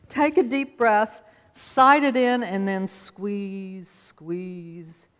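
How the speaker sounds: coaching gently. Retold or imitated. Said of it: "Now, consider I was eight".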